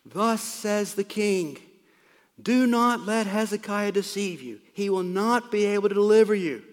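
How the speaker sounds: herald's loud, commanding call; calling out loudly. Acted. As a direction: proclaim it to people up on a wall. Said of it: "called out in a loud voice".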